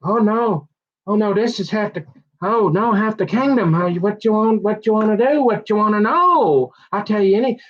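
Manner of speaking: besotted Samson. Retold or imitated. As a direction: gush like a lovestruck fool. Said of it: "Samson's all".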